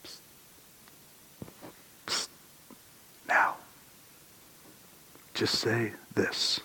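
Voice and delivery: slow, hushed psst and a soft nudge; whispered prompting. Retold or imitated. God nudging the believer when to speak, hushed and slow. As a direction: lean in and whisper the cue. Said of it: "God will say".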